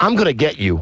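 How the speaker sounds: angry, furious, clenched, resolute delivery. Retelling an angry phone call with a comedy club booker: imitating his own angry outburst. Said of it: "I got really pissed".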